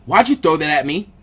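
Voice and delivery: demanding. Acted. Naruto confronts the thrower.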